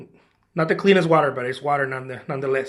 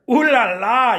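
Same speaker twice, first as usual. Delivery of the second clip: playful "ooh la la"; 3 semitones higher, 5 dB louder, slower than usual. Acted. Mock-French delight at the water.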